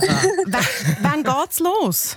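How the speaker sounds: stretched slowly through a laugh; amused, drawn-out laughing question; laughing disbelief. Real, not acted. Host laughs at late exam.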